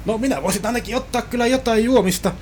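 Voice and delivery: hammed-up cabin crew pitch; chirpy flight attendant. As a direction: play the overly keen steward selling snacks.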